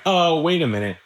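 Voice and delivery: the inner voice suddenly halting the flight; sudden alarm. Retold or imitated. Inner voice stopping the dreamer short, in sudden alarm. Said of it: "and it's like".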